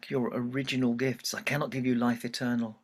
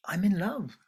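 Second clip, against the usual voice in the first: whispered confession; 8 semitones higher than usual. Acted. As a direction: breathe it as a secret. Daughter answers mother softly.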